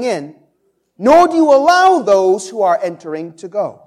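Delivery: loud, forceful scripture reading with a punch on woe; preaching Jesus' woe. Acted. Pastor voicing Jesus rebuking the scribes and Pharisees, forceful preaching. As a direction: thunder the rebuke at the hypocrites.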